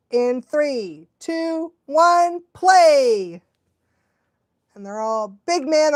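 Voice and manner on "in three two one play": building countdown. Real, not acted. Countdown to start.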